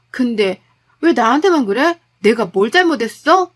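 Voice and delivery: wife furious her husband blames her, loud protest; angry wife. Acted. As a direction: defend yourself hotly, rising. Wife hits back at husband.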